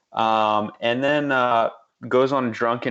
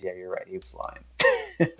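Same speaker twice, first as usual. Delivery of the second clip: mock Sean Payton; 3 semitones lower, 5 dB quieter than usual. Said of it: "Sean Payton looks at Vitt and he says".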